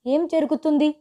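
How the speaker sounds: the father calls out in sudden worry; anxious father, a lightly voiced alarm; worried father. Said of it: "నాన్న గొంతు కంగారుగా ఉంది".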